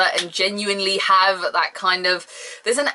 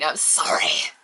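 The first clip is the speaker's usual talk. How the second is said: whispered sorry; 4 semitones lower, slower than usual. Real, not acted. Apologetic aside.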